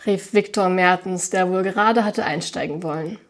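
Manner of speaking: reading a novel aloud with light character voices; story narration. A narrator's reading. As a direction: tell the story to listeners. Liest den Roman vor. (vorgelesene Erzählung)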